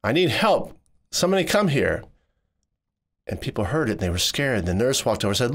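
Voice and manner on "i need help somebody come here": mild mock yell for help, higher; retold scream. Son calling hospital staff for help, mild mock yell. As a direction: call for help in a hallway, half-voiced. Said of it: "I screamed top of my lungs".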